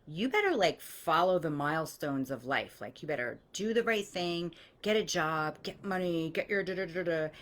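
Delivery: lightly voiced scolding elder; a hint of a bossy parent laying down the rules; mock scolding. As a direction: nag about life milestones, half mocking. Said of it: "authoritarian type of scolding".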